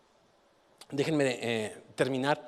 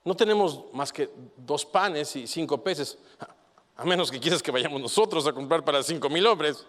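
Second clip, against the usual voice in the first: sarcastic retort; 4 dB louder than usual. Acted. Disciples talking back to the teacher, sarcastic. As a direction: make it sound like talking back. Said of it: "a mí me suena así".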